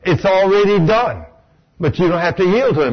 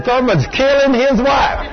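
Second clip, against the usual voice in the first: higher, slow mock alarm; alarmed shout; 7 semitones higher than usual. Bystander crying out at the preacher, alarmed. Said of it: "imagine if somebody walked up".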